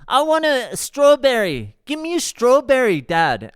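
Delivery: put-on high, loud demanding child; imitated kid yelling. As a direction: yell across the table like a pestering kid. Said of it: "he yells out to his dad".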